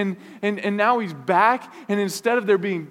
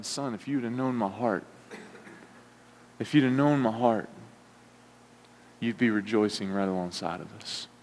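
tender father; 7 semitones lower, 6 dB quieter than usual. Acted. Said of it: "You can almost hear him say that".

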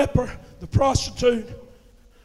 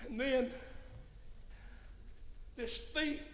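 hushed narration; 7 dB quieter than usual. Acted. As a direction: draw them in quietly. Hushed storytelling of the scene.

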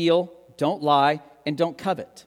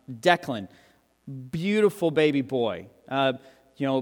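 ordinary talk, nothing marked

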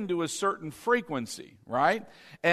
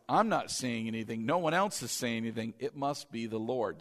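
Eli's dawning realization; 7 semitones lower, 5 dB quieter than usual. Acted. Eli slowly realizes who is calling.

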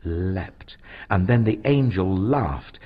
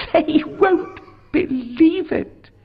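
laughing; 5 dB louder, slower than usual. Acted. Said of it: "she laughed".

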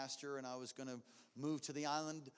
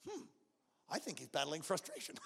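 amused thought; faster than usual. Retold or imitated. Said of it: "I thought".

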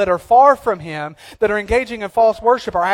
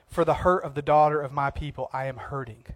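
mournful lament; 5 semitones lower, 8 dB quieter than usual. Retold or imitated. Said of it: "he cries out".

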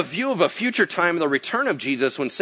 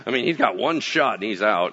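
mock grumble; 10 semitones lower, 4 dB quieter than usual. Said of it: "They're like".

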